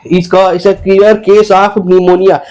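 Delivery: lightly imitated doctor, slowly delivered; doctor giving diagnosis. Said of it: "अस्पताल गया और बोलता है".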